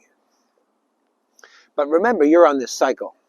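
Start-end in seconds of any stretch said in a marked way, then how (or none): 0.0-1.5 slow whispered aside; hushed aside. Real, not acted. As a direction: drop to a whisper, slowly. Aside remark.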